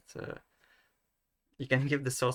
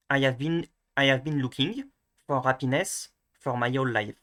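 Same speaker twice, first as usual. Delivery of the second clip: French accent; 4 dB louder than usual. Shown as a demonstration. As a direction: read it with French vowels and dropped H's. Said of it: "going to be the French one".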